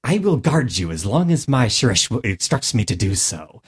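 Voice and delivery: lightly voiced Knoll guard, pure tone; front-of-mouth Knoll. Shown as a demonstration. Player demonstrates the third Knoll, a guard, lightly placed forward in the mouth. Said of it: "I speak purely from the top and front of the mouth".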